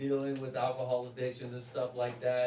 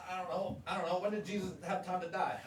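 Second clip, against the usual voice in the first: higher, dopey clueless voice; stupid guy tone; 5 semitones higher, faster than usual. Retold or imitated. Husband answering wife, stupid guy tone. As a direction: play dumb like a clueless husband. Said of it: "stupid guy tone".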